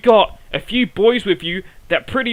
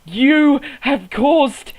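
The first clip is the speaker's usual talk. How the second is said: slow furious yell; 4 semitones higher, much slower than usual. Acted. Angry promo outburst.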